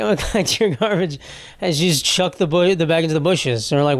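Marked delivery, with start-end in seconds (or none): 0.0-1.2 a hint of British accent, laughing through; laughing British lady. Retelling the tour lady's line while laughing, British accent. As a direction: imitate the tour lady, cracking up. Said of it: "like, British for some reason".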